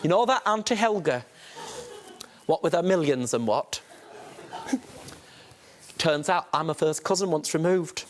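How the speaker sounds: mock auntie breaking bad news, through laughs; lightly voiced gossiping auntie, half laughing; imitating Auntie Sarah. Judge mimicking the auntie's call, laughing. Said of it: "how Auntie Sarah in my mind sounds".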